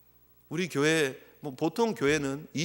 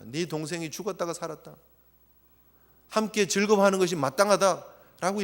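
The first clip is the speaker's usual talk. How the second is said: gentle, dignified father. Retold or imitated. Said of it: "점잖하게 말씀을 하십니다".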